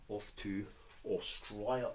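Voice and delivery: put-on a brief, half-hearted Australian accent on Australia, with rising tune and "Australia" said as "Aus-try-a"; bad Australian accent. Packing old books off to Australia, a terrible mock Australian accent. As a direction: toss off a terrible Australian accent with an upward lilt. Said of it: "That's a terrible accent".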